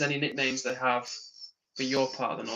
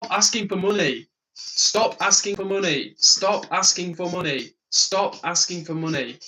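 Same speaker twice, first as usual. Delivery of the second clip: slow, loud, higher, every word hammered; pleading insistence; 4 semitones higher, 6 dB louder, slower than usual. Real, not acted. Streamer begs chat to stop asking for money, slow and loud. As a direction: beat each word home slowly and loudly.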